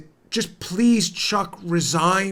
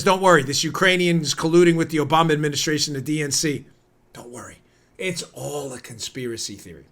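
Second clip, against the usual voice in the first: mock reassurance; 3 semitones lower than usual. Host mocks anchor dismissing the story, sarcastic. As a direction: fake soothing anchor voice. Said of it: "Chuck Todd says".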